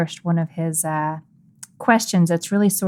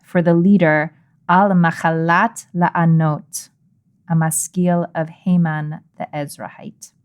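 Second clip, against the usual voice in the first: scripture reading. Acted. Host reads a psalm to open the episode, solemn and measured. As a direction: read the psalm out like a prayer.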